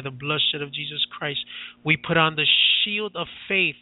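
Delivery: steady, rhythmic deliverance prayer, rolling phrase after phrase; fervent prayer. Acted. Pastor praying over everybody listening, fervent and steady. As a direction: pray it with calm authority, binding and casting out.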